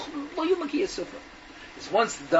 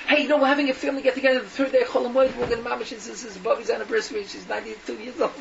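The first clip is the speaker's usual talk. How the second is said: eager invitation; 4 semitones higher than usual. Acted. Relative's eager invitation, acted.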